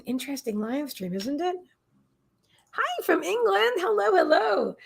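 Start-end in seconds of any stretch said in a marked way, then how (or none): 2.7-4.8 high, drawn-out singsong hello; delighted greeting. Real, not acted. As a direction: greet a newcomer in a high, slow lilt. Greeting a viewer joining from England.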